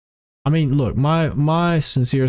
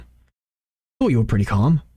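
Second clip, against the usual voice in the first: slow deliberate take; 4 semitones lower, slower than usual. Shown as a demonstration.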